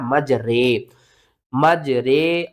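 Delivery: रे with a long "ay" vowel; imala reading. Shown as a demonstration. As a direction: say मज, then hold रे as "ray". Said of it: "इसको किस तरह पढ़ना है". (मज रे, इमाला के साथ)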